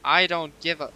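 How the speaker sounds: 1 reading chat loudly. Retold or imitated. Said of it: "You can go first, Skylar".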